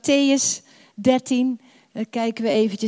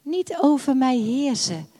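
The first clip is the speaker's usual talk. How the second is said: slow prayer; much slower than usual. Acted. Pastor prays aloud.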